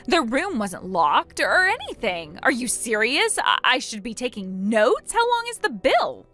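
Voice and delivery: affronted, climbing high at the end; indignant protest. Acted. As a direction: protest the unfair blame. Opal protests blame and bill.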